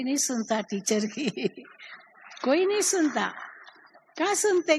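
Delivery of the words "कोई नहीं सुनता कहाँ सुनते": emphatic exclaim. Real, not acted.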